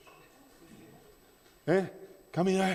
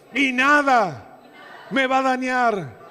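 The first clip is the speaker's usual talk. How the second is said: loud, slow, high, with full force; shouted declaration; 4 semitones higher, 4 dB louder, slower than usual. Real, not acted. Pastor leads the church in a declaration, shouted. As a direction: belt it as a battle cry. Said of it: "Decí conmigo".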